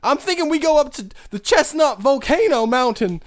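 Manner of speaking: dopey stoner dreaming of weed. Acted. Stoner character pitches weed plan.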